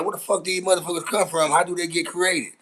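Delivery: baffled mock outcry; retold bewildered outburst. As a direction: act out your shock at finding bugs everywhere. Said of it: "I'm like".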